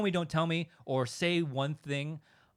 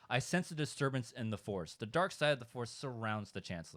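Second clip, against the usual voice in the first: better line read; 5 dB quieter than usual. Shown as a demonstration. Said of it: "I think a better line is".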